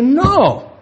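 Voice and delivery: preacher voicing the devil, loud and defiant. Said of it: "Entonces el diablo dice".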